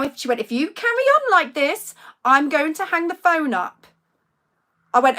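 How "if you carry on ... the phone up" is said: mock-nice warning, pitched up and louder; patronising. Health worker warning a parent she will hang up, patronising. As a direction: imitate a condescending threat. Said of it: "in a really nice tone, which is really patronising".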